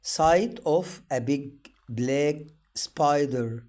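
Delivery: very slow, word by word, each word stressed; slow reading for learners. Shown as a demonstration. Teacher reads sentences slowly for students. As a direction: read it out slowly for beginners to follow. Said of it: "للتدريب".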